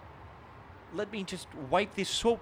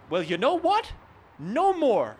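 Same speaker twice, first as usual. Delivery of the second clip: louder, higher fed-up declaration; outburst; 5 semitones higher, 6 dB louder than usual. Acted. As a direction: snap into resolve. Sudden resolve, outburst.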